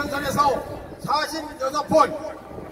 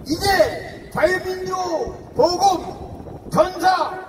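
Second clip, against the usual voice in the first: rally speech; 2 semitones higher than usual. Acted.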